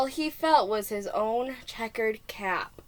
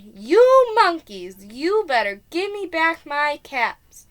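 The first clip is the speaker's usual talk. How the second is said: slow, louder, higher scolding; quite angry; 5 semitones higher, 7 dB louder than usual. Acted. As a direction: stamp out the words. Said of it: "Now he felt quite angry".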